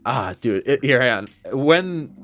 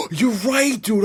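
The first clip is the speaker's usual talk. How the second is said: sharp gasp, then high and loud; suddenly remembering, stunned; gasping realization; 13 semitones higher, 3 dB louder, much slower than usual. Real, not acted. To friends, realizing the drink was dyed, stunned gasp.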